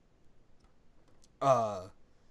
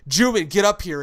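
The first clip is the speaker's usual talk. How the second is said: louder call, a bit higher; calling up cosplayer; 5 semitones higher, 11 dB louder than usual. Retold or imitated. Host calling cosplayer to stage, loud summons. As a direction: call him up from the crowd. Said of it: "So we said".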